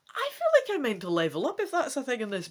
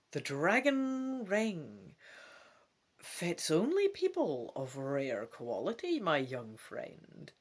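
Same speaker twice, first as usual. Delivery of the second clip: put-on mysterious old woman; slower than usual. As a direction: lean in, slow and secretive. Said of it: "the old woman says mysteriously".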